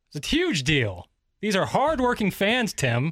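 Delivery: put-on screaming. Acting out a mock argument as Skip: screaming as Skip. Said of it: "start screaming at each other".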